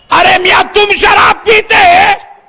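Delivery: shocked scolding. Retold or imitated. Mosque president scolds a drinker.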